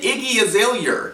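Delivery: "Azalea" ending in an r sound; mimicked mispronunciation. Mocking how the rapper says her name, "Azalea" with an r ending. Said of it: "don't even say your own name right".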